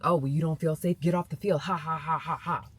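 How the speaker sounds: imitating jeering coaches with a loud, fake laugh; jeer, then tack on a staged "ha, ha, ha"; mocking laughter. Coaches laughing at a girl who feels unsafe, mocking laughter. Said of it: "They're laughing at her as she says that".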